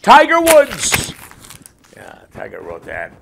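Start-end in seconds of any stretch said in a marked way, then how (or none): 0.0-1.1 high, drawn-out yell; big stretched-out shout; shouted sign-off. Acted. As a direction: belt the name out as the punchline. Mock letter signed off with a shouted name.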